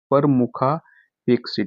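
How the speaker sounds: परमुखापेक्षी drawn out very slowly, syllable by syllable; slow dictation. Shown as a demonstration. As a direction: stretch परमुखापेक्षी out so students can write it. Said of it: "शुद्ध किस तरीके से लिखेंगे आप". (बहुत धीमे, शब्द लिखवाते हुए)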